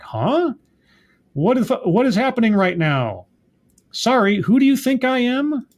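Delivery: high-pitched mock confusion; bewildered. Recapping the hero's confused phone call, mock-bewildered. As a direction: act out being totally lost.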